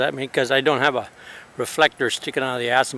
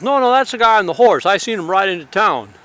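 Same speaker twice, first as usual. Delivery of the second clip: other cop; 5 semitones higher than usual. Retold or imitated. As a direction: quickly set the others straight. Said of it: "the other guy goes".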